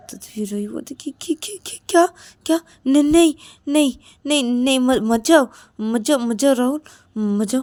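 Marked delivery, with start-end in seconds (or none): 1.2-7.6 stammering, anxious begging; panicked pleading. Acted. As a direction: beg a partner to stay, tripping over words. Ravi begs Rahul not to leave. (घबराकर हकलाते हुए मिन्नत)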